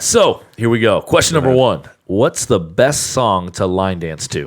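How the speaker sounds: put-on quiz-show announcer delivery. Invited by a co-host to start the questions, the speaker asks them in announcer voice. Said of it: "in his announcer announcer voice".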